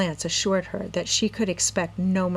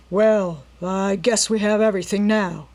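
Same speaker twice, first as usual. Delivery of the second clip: muttering robber; 2 semitones higher, 5 dB louder than usual. A narrator's reading. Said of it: "the leader muttered".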